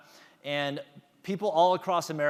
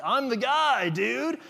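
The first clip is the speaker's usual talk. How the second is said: much higher and louder, slow, cocky brag; swaggering catchphrase; 10 semitones higher, 6 dB louder, slower than usual. Retold or imitated. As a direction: shout it like a show-off contestant. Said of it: "he comes out with this swagger".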